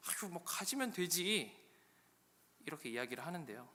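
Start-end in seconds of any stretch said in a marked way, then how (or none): 0.1-1.6 slow, drawn-out coaxing; higher, lingering reassurance; placating Jacob. Acted. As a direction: humour her, stretching the words. Acted Jacob placating Rachel.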